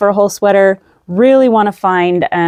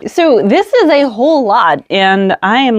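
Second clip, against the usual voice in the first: out of breath; 4 semitones higher than usual. Real, not acted. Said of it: "like, out of breath from just explaining my yarn stash".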